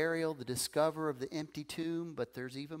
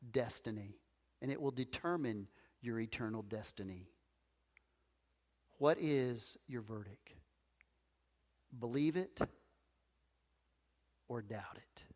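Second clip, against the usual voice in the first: passionate closing argument; 3 semitones lower than usual. Acted. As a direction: plead like a trial lawyer. Addresses congregation as jury.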